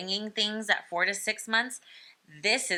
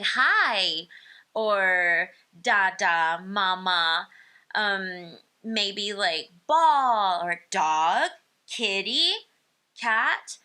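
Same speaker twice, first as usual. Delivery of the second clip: first words; 5 dB louder, much slower than usual. Shown as a demonstration. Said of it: "one to two words, like".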